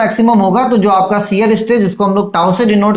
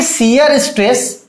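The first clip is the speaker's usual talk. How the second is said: slow, deliberate repetition; slow dictation; much slower than usual. Shown as a demonstration. Teacher repeating the law for students, slow and deliberate. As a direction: say it again slowly so it sticks. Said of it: "repeating law slowly".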